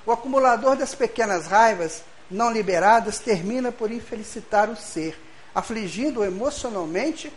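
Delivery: measured, formal reading voice; reading a passage aloud. Acted. Speaker reads a book passage to the audience, formal reading. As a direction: read it out as a quoted text.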